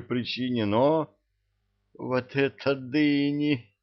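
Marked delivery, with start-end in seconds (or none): 1.9-3.7 high, slow delighted imp voice. Acted. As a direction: gasp it out like a delighted little imp. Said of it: "восхищённый голос из-под кровати".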